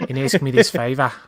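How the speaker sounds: Godfather voice cracking into laughter; laughing Godfather impression. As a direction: laugh through the mob boss line. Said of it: "It would be more like".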